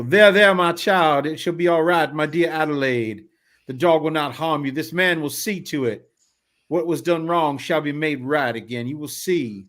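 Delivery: gentle, soothing, a bit high; comforting father. Acted. Father consoles his hurt daughter, gentle.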